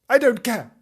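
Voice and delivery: loud, high bratty retort; defiant little girl. A narrator's reading. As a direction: throw it back like a spoilt child. Voices defiant child Fanny.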